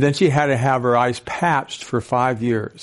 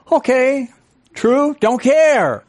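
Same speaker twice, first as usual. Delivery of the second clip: much higher, slow, carefree agreement; brain's breezy okay; 11 semitones higher, 4 dB louder, slower than usual. Pretend. Speaker voicing the brain agreeing, high and carefree. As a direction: toss it off like nothing matters.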